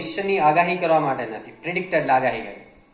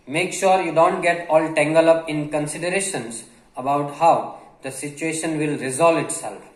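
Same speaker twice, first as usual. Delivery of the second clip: reads the English line very slowly, word by word; slow dictation reading; much slower than usual. Acted. Teacher reading a passage slowly to Gujarati learners. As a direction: spell it out slowly for the students.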